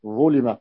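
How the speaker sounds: "ظلم" as ẓulima; u-i vowels on "ظلم"; passive vowelling. Shown as a demonstration. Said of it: "يعني يكون مبنيا للمفعول".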